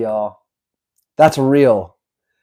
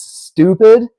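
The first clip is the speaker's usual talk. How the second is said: stupid? punched louder and higher, read as shouting capitals; all caps shout; 7 semitones higher, 5 dB louder than usual. Acted. Reading Trump's post to chat, all-caps emphasis. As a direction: hit stupid? hard like capital letters. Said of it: "all caps".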